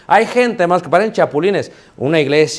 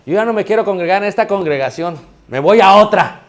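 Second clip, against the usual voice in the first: imitated huffy announcement, building to a loud finish; mock indignation; 4 semitones higher, 5 dB louder than usual. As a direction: announce your walkout in mock protest. Acts a disgruntled brother quitting congregation.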